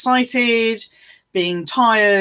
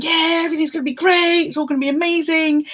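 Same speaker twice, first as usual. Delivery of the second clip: high, fast cocky voice; chirpy and sure of yourself; overconfident cheer; 9 semitones higher, faster than usual. Retold or imitated.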